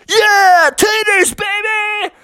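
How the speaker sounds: high, excited cheer; hammed-up high-pitched whoop; family cheering. A narrator's reading. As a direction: squeal it like a gang of excited kids.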